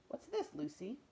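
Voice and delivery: a curious giant speaking; big bearded man. Acted.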